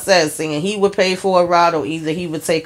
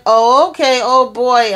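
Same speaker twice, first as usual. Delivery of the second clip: mock startled surprise; 7 semitones higher, 5 dB louder than usual. Imitating her reaction in bed.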